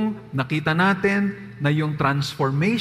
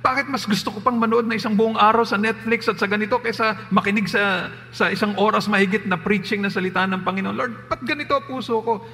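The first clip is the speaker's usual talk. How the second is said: pleading prayer; 5 semitones higher than usual. Shown as a demonstration. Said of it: "Sabihin mo kay Lord".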